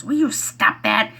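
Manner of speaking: mock exasperated kid; imitating son telling mom to stop; 1 son scolding. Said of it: "He goes".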